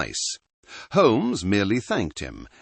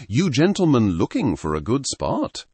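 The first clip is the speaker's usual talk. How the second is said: a hint of a rustic Sussex fisherman's accent, low burr; local Sussex accent; 3 semitones higher than usual. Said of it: "his voice a low burr, thick with the local accent".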